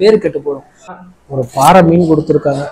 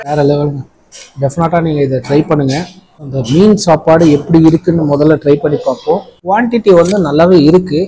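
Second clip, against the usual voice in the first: chewing while talking; speaking around food; mouth full. Real, not acted. Seen 0: bite taken at -1.0, jaw working while speaking after.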